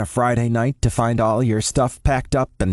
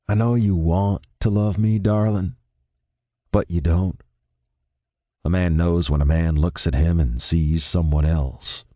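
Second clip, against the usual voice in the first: Noel, resigned; 3 semitones lower than usual. A narrator's reading. Noel telling Ben to go to Austin: low, resigned. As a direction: lower voice of a calm, resigned boyfriend.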